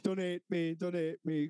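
lightly whined, repeated plea; mock crying plea. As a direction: imitate a tearful drunk pleading. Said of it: "crying, fucking, oh".

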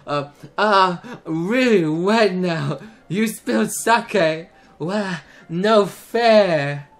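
put-on slow, slurred drunk girl. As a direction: slur it out slowly, tipsy. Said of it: "That's my best drunk voice".

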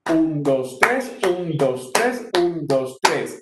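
"tres" strong, "un, dos" weak; stress on TRES. Shown as a demonstration. Teacher demonstrating pasillo count, accent on each "tres". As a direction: count in threes, landing hard on "tres". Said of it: "que sería pasillo".

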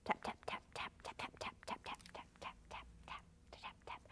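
breathy whispered tap-tap sound effect; sneaky whispered tapping. Acted. Puppet tiptoes, whispered sound effect.

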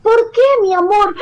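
put-on high, tender coaxing voice for a child; tender comforting. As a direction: soothe the upset little girl. She comforts the little girl.

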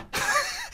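quiet, high laugh; short derisive laugh; mocking laugh. Real, not acted. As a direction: laugh softly at the taunt. Laughs after the taunt.

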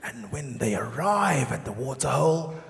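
slow, low, hushed wildlife commentary; nature documentary narrator. Pretend. Documentary narrator describing the Amanzimtoti migration, slow and hushed. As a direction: narrate like a National Geographic film. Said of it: "there's even commentary in the background".

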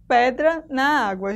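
"na água" run together, the two a's merged; joined vowels. Shown as a demonstration. Teacher showing poetic syllable joining, vowels run together. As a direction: link "na" straight into "água" as one sound. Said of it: "Juntamos aqui o na com o a".

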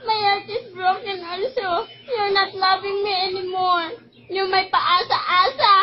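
tearful. Real, not acted. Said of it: "I'm so much crying because your heart my broken".

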